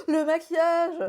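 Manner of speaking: high, slow gasp of wonder; excited gasp. Retold or imitated. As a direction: gasp with delight. Imitating excited discovery.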